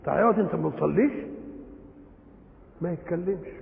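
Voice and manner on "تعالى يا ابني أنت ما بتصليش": quick, mildly incredulous question; a touch of reproach, rising at the end; astonished disapproval. Acted. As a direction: ask briskly, as if you can't believe it. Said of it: "تعجبت من أنه لا يصلي".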